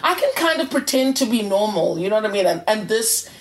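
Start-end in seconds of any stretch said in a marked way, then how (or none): 0.0-2.0 mock-smug, a bit higher, setting yourself apart from other autistic people; smug superior attitude. Podcast host mocking online Asperger's posts, smug superior tone. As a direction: play the know-it-all who thinks they're above the rest. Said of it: "there was this attitude of".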